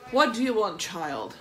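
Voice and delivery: loud. Real, not acted. Answering child calling.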